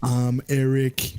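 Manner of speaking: slow, botched accent imitation; Eric. Co-host trying his best accent on introduction, lightly put-on accent. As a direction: draw it out in a half-baked accent. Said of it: "I tried to do my best Eric accent".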